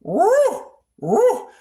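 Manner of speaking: imitating a cat's woo woo; cat barking woo. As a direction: yip like a cat, settling down at the end.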